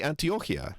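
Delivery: Antiochia said "an-tee-OH-kee-uh"; Greek pronunciation. Shown as a demonstration. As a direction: Antiochia in full, with a k sound. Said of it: "Those are the Greek pronunciations".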